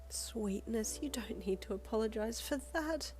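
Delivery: whispered gentle scolding; soft whispered reassurance; light chiding. Acted. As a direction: hush them kindly, half amused. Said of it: "she chided lightly with a chuckle".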